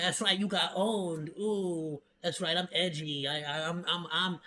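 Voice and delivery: lightly voiced smug antihero, purring to himself; smug edgelord voice. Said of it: "and then they'll be like".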